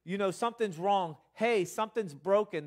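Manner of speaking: loud, insistent alarm calls; mock body shouting. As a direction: voice the body yelling a warning. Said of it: "their body's not shouting".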